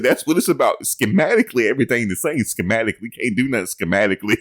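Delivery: high, amused mock coach voice; laughing mock quote; imitating a coach. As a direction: mimic the coach's line while cracking up. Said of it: "He said".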